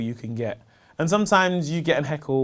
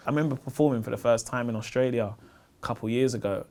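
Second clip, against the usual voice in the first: ordinary talk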